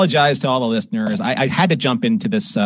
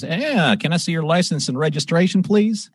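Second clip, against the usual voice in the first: lightly put-on Texas trooper accent, higher pitch; trooper's accent; 4 semitones higher than usual. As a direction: imitate a Texas trooper's accent, politely asking for papers. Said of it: "Oh, you have the accent".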